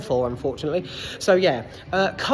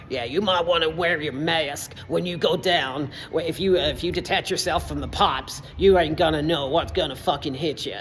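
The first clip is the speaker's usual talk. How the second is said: amateur South Texan accent impression; gruff South Texan; 2 semitones lower than usual. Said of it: "gruff South Texan accent".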